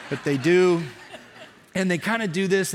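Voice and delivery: laughing through the words. Real, not acted. Preacher laughs at miming runners stretching, laughing. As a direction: chuckle while showing the stretch.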